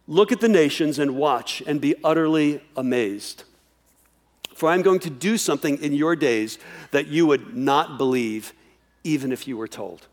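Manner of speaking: grave, steady reading of God's reply; scripture reading. Acted. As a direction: read the verse as a solemn promise. Reads God's words from scripture.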